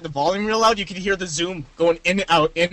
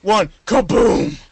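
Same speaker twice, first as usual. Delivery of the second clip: announcer countdown; 4 dB louder, much slower than usual. Pretend. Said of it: "it would go".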